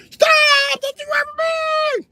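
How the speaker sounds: high, loud cop bark; cop shout. Retold or imitated. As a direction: yell it like a cop mid-chase. Cops yelling at fleeing suspect.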